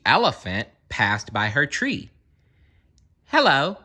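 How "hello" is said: a high, coaxing bird's hello; lazy bird calling. A narrator's reading. Lazy bird calling hello to the elephant, higher. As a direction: call up like a lazy bird wanting a favour. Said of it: "called the lazy bird".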